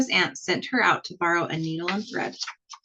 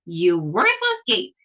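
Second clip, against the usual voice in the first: mild mock scream; 4 dB louder, slower than usual. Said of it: "she screamed".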